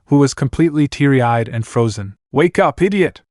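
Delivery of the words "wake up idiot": high, sharp shout to rouse her; urgent shout. Acted. Naruto to frozen Anna, urgent shout. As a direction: snap her out of it. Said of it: "Naruto shouted".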